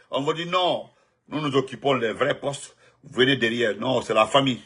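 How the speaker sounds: normal talking voice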